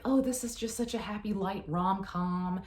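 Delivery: gushing fan quote. Retold or imitated. Mocking readers who hyped the book, in a high gushing voice. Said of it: "they're like".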